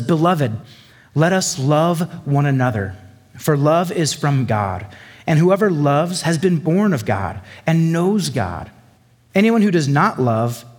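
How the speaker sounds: solemn scripture read. Acted. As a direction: read the verses with reverence. Reading scripture aloud.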